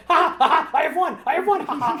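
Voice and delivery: high loud triumphant French villain; gloating French accent. Retold or imitated. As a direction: crow the victory in a French accent. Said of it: "spoke with a bad French accent".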